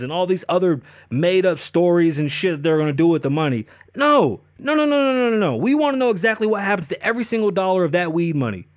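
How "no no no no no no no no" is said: string of noes, pitched up high; emphatic no. Real, not acted. Ranting about school funding, emphatic rising noes. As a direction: shut it down, no after no. Angry rant about weed money.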